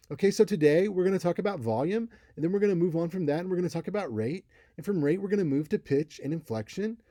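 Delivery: high-pitched, quick, repeating sing-song pattern; same lilting tune on every clause, pitched high; high monotone sing-song. Shown as a demonstration. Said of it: "we call it sing-song".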